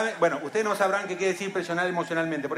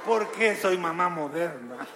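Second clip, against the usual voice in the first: madre culpable; 2 semitones lower, 3 dB quieter than usual. Pretend. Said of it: "la mamá se va con una lanza clavada".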